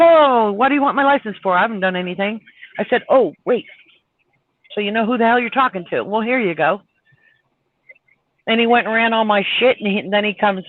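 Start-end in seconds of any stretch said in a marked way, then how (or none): 0.0-2.4 quick, snippy mock protest; snotty. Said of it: "got all kind of snotty". 3.1-6.8 fast, sarcastic retort; snotty. Retold or imitated. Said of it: "got all kind of snotty".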